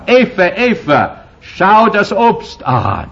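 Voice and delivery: slow, high, coaxing lure; tempting Satan. Retold or imitated. Satan luring Eva to the fruit, slow and coaxing. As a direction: draw Eva in slowly toward the fruit.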